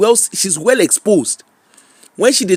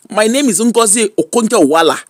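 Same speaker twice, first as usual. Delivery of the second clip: put-on Igbo accent; 4 semitones higher than usual. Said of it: "talk with her correct Igbo accent".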